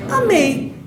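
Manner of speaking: "Amei" high then falling, stress on the e; correct diphthong. Shown as a demonstration. Teacher confirming the answer to the class, correct diphthong. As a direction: glide down from e to i in "Amei". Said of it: "Vocês vão falar amei ou amei?".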